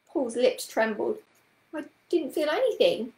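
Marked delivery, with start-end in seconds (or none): 1.7-3.1 put-on high, squeaky child's protest; squeaky little voice. A narrator's reading. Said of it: "in a squeaky little voice".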